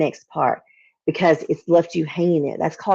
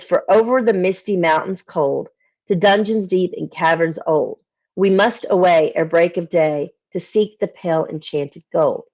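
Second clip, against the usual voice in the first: poem reading. Acted. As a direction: read it like an old ballad, savouring each line. Reciting first stanza.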